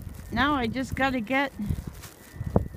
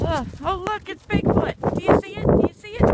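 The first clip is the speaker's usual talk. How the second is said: excited; 8 semitones higher than usual. Real, not acted. Spotting "Bigfoot", playful excitement.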